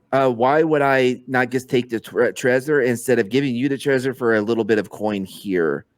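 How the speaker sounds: talking with a bitten tongue; lisping slightly, tongue sore. Real, not acted. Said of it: "Why do you suddenly have a lisp?".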